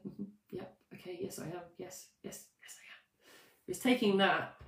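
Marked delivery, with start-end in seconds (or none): 0.0-3.3 barely voiced, fading away to nothing; half-hearted whisper. Coach mocking her own limp affirmations, in a fading whisper. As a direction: mumble it without belief, dying out. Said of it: "when I said".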